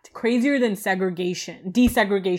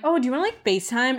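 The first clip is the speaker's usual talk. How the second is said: higher-pitched imitation of a friend; friend's eager invite; 5 semitones higher, much faster than usual. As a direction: mimic a friend's perky invitation. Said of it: "Some of my friends have been like".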